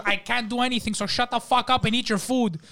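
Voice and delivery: high-pitched dismissive rant; exasperated waiter. Retold or imitated. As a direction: act out a waiter brushing off a customer. Waiter berating the injured customer.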